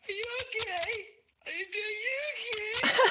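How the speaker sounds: high, exaggerated worried asking; mock concerned family. Family asking if he is okay, mock worried high voice. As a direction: mimic the family fussing over him. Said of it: "I'm just getting this".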